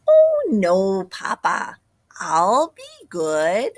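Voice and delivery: put-on child voice. Chick promising papa, whispered.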